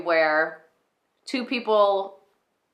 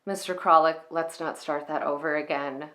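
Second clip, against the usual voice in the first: Clara's apologetic confession. Acted. Clara admitting her old crush to Mister Kralik, apologetic. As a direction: confess an old crush, hesitant, with small rises of exasperation. Performs a film monologue as Clara Novak.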